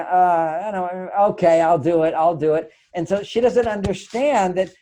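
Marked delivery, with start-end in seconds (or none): 0.0-2.7 reluctant mock grumble, sighing it out; lightly played put-upon husband giving in; grumbling. Husband grudgingly agreeing to his wife's request, mild grumble. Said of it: "typically we grumble".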